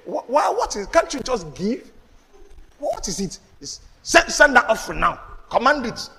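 mock exasperation. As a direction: act out a baffled complaint about offering rituals. Mocks offering practice in church.

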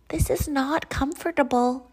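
high-pitched complaint at normal volume; mild storybook cry. A narrator's reading. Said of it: "he cried".

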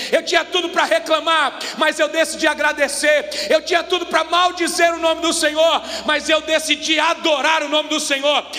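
builds to a loud preacher's shout; rising in force to full cry; preacher voicing a believer, building to a shout; building preaching shout. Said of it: "De olhar para alguém e dizer assim".

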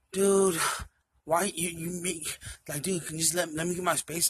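drawn-out, put-upon complaint; imitating exasperated girlfriend. Girlfriend wanting space from boyfriend, imitated exasperation. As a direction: act out a girlfriend fed up with him. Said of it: "Does she talk like that to you?".

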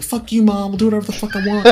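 hammed-up drunk back-talk; drunken defiance. Drunk son snapping back at his mom, in a loud mock yell.

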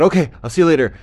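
high, loud dingo voice; cheery dingo goodbye. Acted. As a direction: call a quick farewell.

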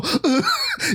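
high-pitched imitated shudder; exaggerated high shuddering noise; mock shudder. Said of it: "you guys always shudder".

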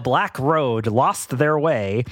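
slow, solemn read-aloud; dramatic storybook reading. Acted. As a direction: read it slowly like a spooky tale. Rereads the line slowly, dramatically.

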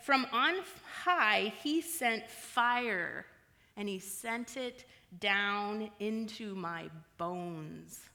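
slow lament. Acted. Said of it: "She says".

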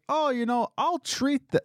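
very high, sing-song mock boss; mocking the owner. Mocking the owner treating others, high and smug. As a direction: lilt it like a smug generous boss. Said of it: "the owner's like".

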